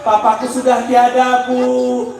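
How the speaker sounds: mock-tearful child's lament; plaintive, lightly acted wail; child crying. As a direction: imitate a grieving child answering, words drawn out. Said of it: "anaknya nangis".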